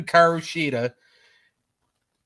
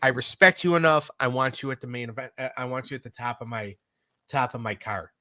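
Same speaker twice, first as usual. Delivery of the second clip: imitating Tony Khan; 4 semitones lower, 4 dB quieter than usual. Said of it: "He's like".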